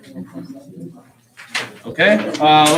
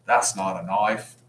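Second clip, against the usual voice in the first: lightly imitating a Crocodile Dundee Australian accent; a hint of a tough Aussie outback voice; 3 semitones lower than usual. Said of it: "Flawless Australian accent".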